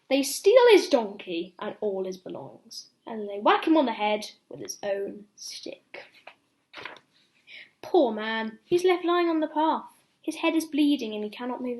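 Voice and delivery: lively read-aloud for little ones; bedtime story reading. Acted. Ben reading a bedtime story to children, lively storytelling. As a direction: tell it like a picture book at bedtime.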